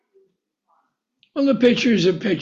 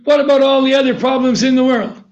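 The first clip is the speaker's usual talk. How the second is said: fast, louder pressing question; louder, quick insistent question; rapid pressing question; 4 semitones higher, 5 dB louder, faster than usual. Retold or imitated. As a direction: fire it at the child.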